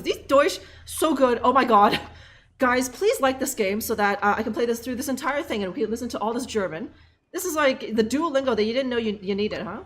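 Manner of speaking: ordinary talk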